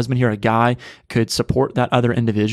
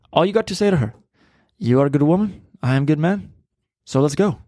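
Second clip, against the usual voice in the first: lightly imitated foreign accent, higher and broken-English; foreign-accent impression; 4 semitones higher than usual. Movie neighbor advising Peter Parker on dating, in a mock foreign accent. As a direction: quote the neighbor in a vague foreign accent, pitched up. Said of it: "What accent was that?".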